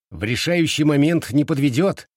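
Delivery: high, loud approval; exclaiming. A narrator's reading. Boy praises cousin at the decisive moment, exclaiming. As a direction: cheer him on with gusto. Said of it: "воскликнул Симэнь Хуань".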